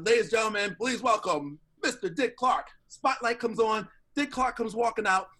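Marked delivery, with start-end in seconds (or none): 0.0-2.7 lightly acted, raised announcer voice; announcer introduction. Warm-up comic introducing the star, mild announcer flourish. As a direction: re-enact a big stage introduction.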